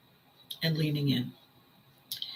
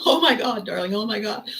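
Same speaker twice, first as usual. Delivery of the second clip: a hammed-up diva gush, higher and louder at first; mock diva; 3 semitones higher, 3 dB louder than usual. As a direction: play a theatrical diva swooning over darling. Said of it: "hanging around with divas".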